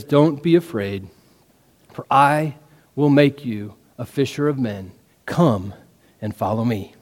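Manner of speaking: low, soft, unhurried call; gentle reassurance. Acted. Jesus gently reassures and calls Peter.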